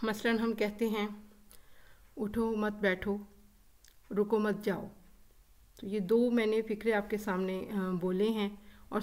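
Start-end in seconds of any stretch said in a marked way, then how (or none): 2.2-3.3 "उठो मत बैठो" run together, no pause; without intonation. Shown as a demonstration. Teacher showing students a confusing sentence, "उठो मत बैठो" unpunctuated. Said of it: "लहजे के उतार चढ़ाव के बगैर". 4.1-4.9 "रुको मत जाओ" run together, no pause; without intonation. Shown as a demonstration. Teacher showing students a confusing sentence, "रुको मत जाओ" unpunctuated. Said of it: "लहजे के उतार चढ़ाव के बगैर".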